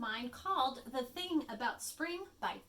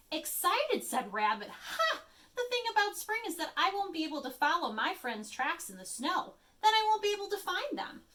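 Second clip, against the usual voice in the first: lightly voiced cranky bunny, louder; grumpy Rabbit; 7 semitones higher, 5 dB louder than usual. Grumpy Rabbit complaining to his friends, mild scoff. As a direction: scoff at spring.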